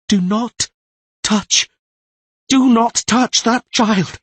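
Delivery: loud, high, slow command. Acted. Tris ordering the voice away from Siri. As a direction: protect the child.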